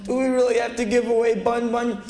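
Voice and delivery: high put-on child voice; pleading kids' voice. Kids beg mother over rabbit, high mock pleading. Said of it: "they're going".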